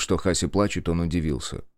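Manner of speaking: ordinary delivery, nothing marked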